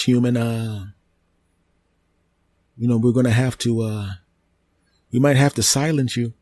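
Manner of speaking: a polite tree warning it may silence you; talking tree, menacing. Acted. Tree character threatens human.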